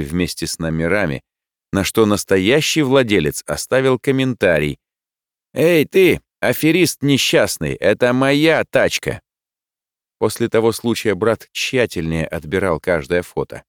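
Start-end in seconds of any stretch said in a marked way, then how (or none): 5.5-9.2 higher, louder outburst at a cheat; indignant accusation. A narrator's reading. Real car owner tells off the fraud, indignant. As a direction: call out the impostor indignantly.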